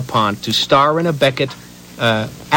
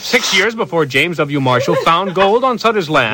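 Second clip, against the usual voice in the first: too rushed. Shown as a demonstration. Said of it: "No, too rushed".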